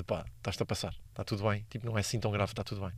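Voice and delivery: soft, low calming murmur; self-reassurance. Retold or imitated. Calming himself down mid-panic, soft low reassurance. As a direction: talk yourself down gently and quietly.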